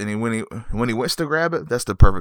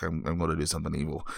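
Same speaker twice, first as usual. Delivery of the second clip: mom's reply; 5 semitones lower, 10 dB quieter, much faster than usual. Retold or imitated. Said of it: "so she's like".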